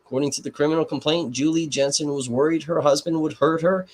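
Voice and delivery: reporter voice. Shown as a demonstration. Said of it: "my reporter voice".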